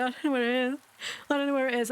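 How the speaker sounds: a hint of a whiny child; upset daughter. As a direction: mimic a flustered kid who can't find it. Daughter panicking over lost paperwork.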